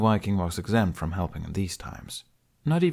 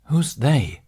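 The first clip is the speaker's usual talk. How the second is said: demanding question; 6 semitones higher, 6 dB louder than usual. Acted. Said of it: "Toothless demanded".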